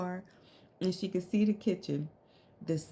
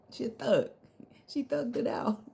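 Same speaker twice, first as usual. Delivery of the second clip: whisper; 6 semitones higher than usual. Real, not acted. Laughing aside about friend.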